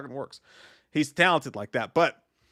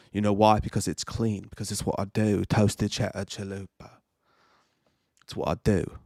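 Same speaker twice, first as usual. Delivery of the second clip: Christopher Nolan impression; 4 semitones lower than usual. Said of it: "he talks like this".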